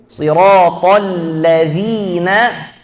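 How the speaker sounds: Siratal ladzina drawn out, tongue tip out on dz; slow recitation. Shown as a demonstration. Teacher modelling zal sound, slow. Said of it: "Keluarkan ujung lidah".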